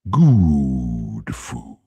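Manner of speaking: low booming effect voice; male voice effect. Pretend. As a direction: growl it through a deep voice changer. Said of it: "that effect is just, like, the male voice".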